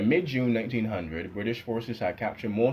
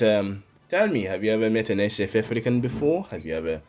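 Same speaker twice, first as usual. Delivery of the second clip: put-on terrible South African accent. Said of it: "my terrible South African accent".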